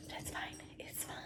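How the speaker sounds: barely audible, whispered to herself; tiny fading mutter of forced acceptance; resigned self-reassurance. Real, not acted. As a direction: talk yourself down under your breath. Consoling herself while annoyed.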